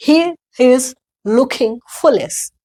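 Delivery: "he is looking foolish" slow, with puffed k in looking; word by word, breathy k in "looking"; American-style aspiration. Shown as a demonstration. Teacher demonstrating how they say it, American aspiration. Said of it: "ऐसे बोलते हैं".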